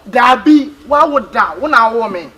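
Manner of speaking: loud, insistent retort; heated argument. Acted.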